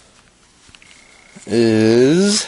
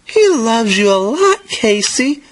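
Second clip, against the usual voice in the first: higher, quick mother's reassurance; lightly voiced mother; 10 semitones higher, faster than usual. A narrator's reading. Mother reassuring Casey about Daddy, lightly voiced. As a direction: reassure an upset child in a raised pitch.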